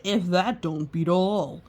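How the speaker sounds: lightly voiced deputy; a hint of a drawling deputy; blabbering deputy. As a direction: blurt it out like a country deputy. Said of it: "Deputy Bob blabbered".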